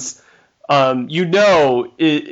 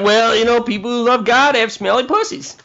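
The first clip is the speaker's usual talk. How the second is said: mock algorithm voice; 6 semitones higher, faster than usual. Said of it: "but it's like".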